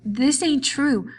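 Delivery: Lenny denies George got hurt, desperate; distressed denial. A narrator's reading. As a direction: refuse it, close to panic.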